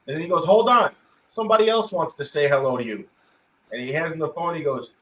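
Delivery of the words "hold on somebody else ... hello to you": retold calling out. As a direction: imitate someone breaking off to pass the phone. Retold caller passes the phone.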